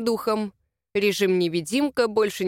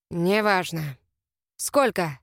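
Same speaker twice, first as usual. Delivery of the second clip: stubborn; 4 semitones lower, slower than usual. A narrator's reading. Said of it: "упрямо повторил он".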